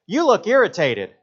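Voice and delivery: high, slow, mock little girl. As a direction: imitate a small girl's blunt remark. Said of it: "looks at me and goes".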